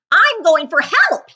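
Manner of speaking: high, loud, slow panicked yell; frightened cry. Acted. Principal fleeing the classroom, panicked loud cry for help. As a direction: shout it while fleeing in fright. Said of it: "he cried over his shoulder".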